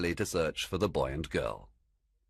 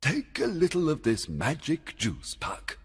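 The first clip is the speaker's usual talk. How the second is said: higher-pitched commanding fairy king; raised, projected storybook king; king giving orders; 10 semitones higher than usual. A narrator's reading. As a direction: instruct Puck as his king. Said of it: "the king ordered".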